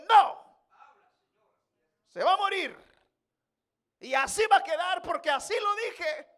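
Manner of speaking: booming high, loud command; God refusing David, booming and final; God's verdict. Acted. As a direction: thunder it down as God. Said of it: "Dios le dijo".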